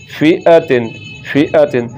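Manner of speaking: फी अ तिन with a quick अ; short vowel. Shown as a demonstration. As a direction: keep अ brief in फी अ तिन. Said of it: "तो ये गलत है".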